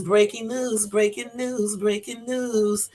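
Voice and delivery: sing-song announcement, last one drawn out; playful news jingle. Pretend. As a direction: chant it like a homemade news jingle.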